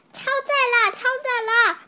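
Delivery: high, loud alarmed cry; a child's squeaky alarmed shout. Acted. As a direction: yell that the boat is overloaded. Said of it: "大家叫起来".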